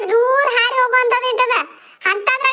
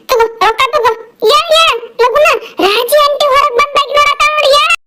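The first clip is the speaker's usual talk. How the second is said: raised voice, louder throughout; loud scolding; 5 dB louder than usual. Acted. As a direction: call it out in a heated rush. Heated scene, calling out loudly.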